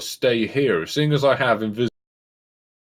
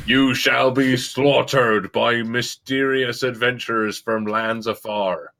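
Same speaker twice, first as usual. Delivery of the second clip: slow solemn threat. Acted. Player as god threatens wolves.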